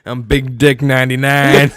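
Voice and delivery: badly faked nerd, still sounding tough; failed nerdy voice. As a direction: attempt a nerd introduction, slow and too tough. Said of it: "You still sounded like you were tough".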